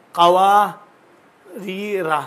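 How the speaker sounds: قواریرہ said very slowly, syllable by syllable; slow spelled reading. Shown as a demonstration. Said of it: "اس طرح لکھا گیا ہے". (قواریرہ کو بہت آہستہ ٹھہر ٹھہر کر پڑھنا)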